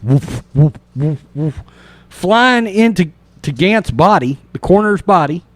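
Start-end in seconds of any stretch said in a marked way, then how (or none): 0.0-1.6 imitated whooshing noise. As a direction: mimic starry lights flying past. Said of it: "making a really cool noise".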